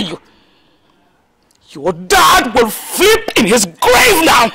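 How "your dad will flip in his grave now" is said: anguished outburst. Acted. Mother outraged, crying out.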